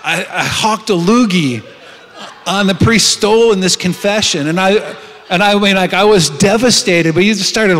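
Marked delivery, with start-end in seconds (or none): 0.0-6.3 laughing. Real, not acted. Embarrassing story told laughing.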